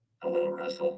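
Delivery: electronically disguised, very high voice-changer sound. Testing a voice changer on the audio board: electronically disguised voice. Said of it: "make my voice go different".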